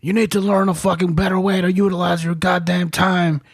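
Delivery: lightly voiced scolding officer; mock angry rebuke. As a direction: master sergeant telling off a drunk sergeant, mock angry. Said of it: "this fucking master sergeant gets pissed".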